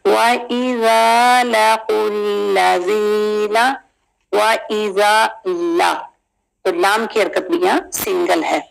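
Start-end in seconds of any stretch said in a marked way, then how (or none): 0.1-5.9 slow tajweed recitation; Quran recitation. Shown as a demonstration. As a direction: recite slowly with melody. Recites the verse slowly. (धीमी तिलावत)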